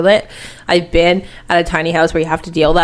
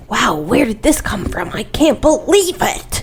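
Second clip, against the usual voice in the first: mock surprise; 4 semitones higher, slower than usual. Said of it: "it wasn't like".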